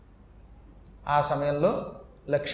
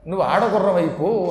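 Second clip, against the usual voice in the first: cursing; 4 dB louder than usual. Acted. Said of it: "శపించేశాడు Vishnu".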